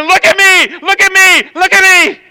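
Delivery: the body's attention-seeking cry; body screaming. Retold or imitated. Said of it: "my body is screaming".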